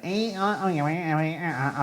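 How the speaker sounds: garbled mock Scouse chatter; imitated Scouse accent. Scouse students chatting to their teacher, mock Scouse gabble. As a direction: babble like incomprehensible Scouse students. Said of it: "speak very fast with the".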